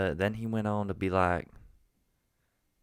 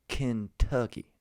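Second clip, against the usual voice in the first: slow, higher Southern drawl; Southern accent; 4 semitones higher, slower than usual. Shown as a demonstration. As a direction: stretch the name out in Southern. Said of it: "That sounds the same".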